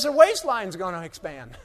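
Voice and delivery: folksy farmer voice with a laugh; mocking Jim Bob, laughing. Farmer's joke to the speaker, chuckling mock voice. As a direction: deliver the punchline chuckling in character. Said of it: "as much as I'm mocking Jim Bob".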